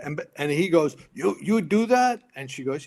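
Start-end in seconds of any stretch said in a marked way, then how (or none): 1.1-2.2 high, slow, rising disbelief; stammered astonished question, louder and drawn out; incredulous. Retold or imitated. Drunk friend hears she will call, incredulous.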